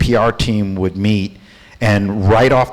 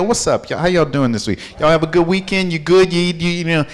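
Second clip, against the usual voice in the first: lightly voiced easygoing boss, higher; friendly CEO greeting; 5 semitones higher, faster than usual. CEO greeting the staff, casual and friendly. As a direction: greet the room like a relaxed friend. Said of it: "even the C E O".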